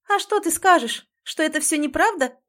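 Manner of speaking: high, loud mocking question; mock what he will say; scornful anger. A narrator's reading. Heroine mocks his excuse.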